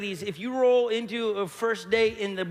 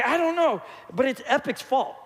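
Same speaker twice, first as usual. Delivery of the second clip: put-on whiny kid excuse; 4 semitones higher than usual. Son blaming his brother, retold.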